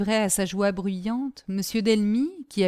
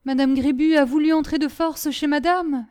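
higher-pitched, mildly nervous servant; trembling voice, understated; 7 semitones higher, 5 dB louder than usual. A narrator's reading. Servant reports a forced entry to her master, mildly shaken. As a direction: explain with a touch of agitation. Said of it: "dit Caroline d'une voix tremblante".

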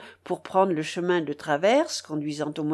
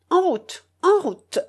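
much higher, excited call to set off; eager urging; 10 semitones higher, 5 dB louder than usual. A narrator's reading. The uncle hurrying the party off, excited high call. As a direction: urge everyone onward, eager and high.

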